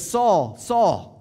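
calling the name Saul out loud. Retold or imitated. Voice of Jesus calling out.

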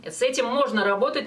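normal talking voice

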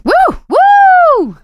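high, loud cheering whoop. Acted. Cheering in the game.

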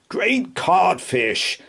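high, slow horrified exclamation; quivering yell. A narrator's reading. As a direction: cry out with a quivering lip. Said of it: "yelled Craddock with quivering lip".

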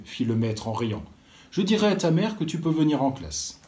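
put-on lively storybook reading for children; story narration. A narrator's reading. Librarian reading a school tale to children, lively storytelling. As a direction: tell it like a librarian reading aloud to kids.

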